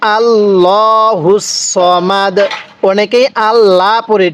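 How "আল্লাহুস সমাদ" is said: আল্লাহুস সমাদ drawn out slowly; slow recitation. Shown as a demonstration. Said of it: "কিভাবে শিখব?".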